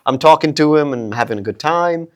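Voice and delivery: regular, casual American accent. Shown as a demonstration. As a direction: chat easily in plain American. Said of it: "the regular American".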